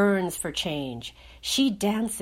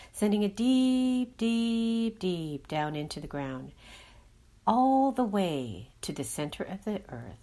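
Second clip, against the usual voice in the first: guided meditation. Acted. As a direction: gently guide the listener to breathe and let go. Leads a meditation.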